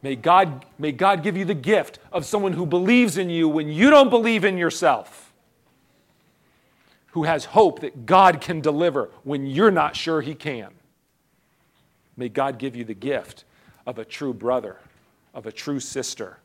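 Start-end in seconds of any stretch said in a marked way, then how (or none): 0.0-10.7 rising blessing. Real, not acted. Blessing climbs again.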